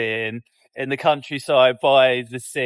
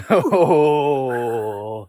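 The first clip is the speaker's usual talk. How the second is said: shivery oh; 6 dB louder than usual. Real, not acted. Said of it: "Sound effect Sally over here".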